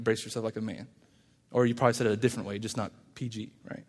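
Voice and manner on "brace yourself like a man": muttered insult. Shown as a demonstration. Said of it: "which is an insult".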